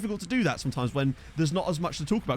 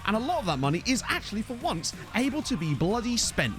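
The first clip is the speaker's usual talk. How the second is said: upbeat, higher-pitched show opener; show intro; 4 semitones higher than usual. Acted. Streamer opening the show to chat, upbeat intro delivery. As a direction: roll out the intro over the music.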